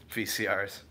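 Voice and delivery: ordinary delivery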